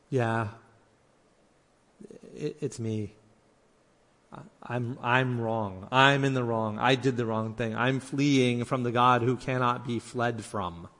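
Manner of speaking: halting, subdued confession with long pauses; owning up. Acted. Jonah admitting he fled from God, owning up. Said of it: "he's finally owning up".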